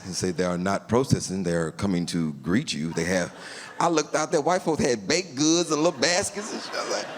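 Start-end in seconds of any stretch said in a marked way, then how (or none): 0.4-3.3 a low, even policeman explaining; calm cop voice. Retold or imitated. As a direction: play the unbothered cop, deep and low. Voicing the calm police officer.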